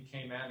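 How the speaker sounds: Cayman as KAY-MAN, full second syllable; both syllables of Cayman given full weight; local pronunciation. Shown as a demonstration. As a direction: say Cayman with a clear "man" at the end. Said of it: "they actually pronounce it".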